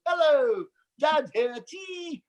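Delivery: high, hammed-up imitation of dad; son's mocking impression. Presenter imitates his son mimicking him on radio, high caricature. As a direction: parody a radio dad, ending on a high squeal. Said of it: "My son on the radio goes".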